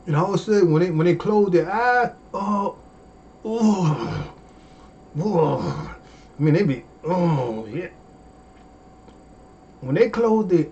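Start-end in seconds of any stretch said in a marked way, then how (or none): 2.3-6.0 savoring moans. Shown as a demonstration. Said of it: "I'm gonna show you".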